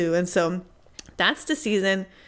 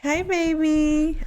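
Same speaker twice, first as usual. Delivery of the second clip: high pitch voice; 8 semitones higher, slower than usual. Real, not acted. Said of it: "my voice goes high pitch real fast".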